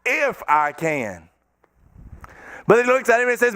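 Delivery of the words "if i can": slow mock. Shown as a demonstration. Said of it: "This is hilarious".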